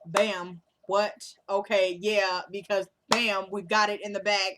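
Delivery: lightly imitated comedian, punchy interjections; Kevin Hart. Host shows off an impression to viewers, lightly imitated comedian. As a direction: do a comedian's catchphrase bit in short bursts. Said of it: "I just channeled Kevin Hart".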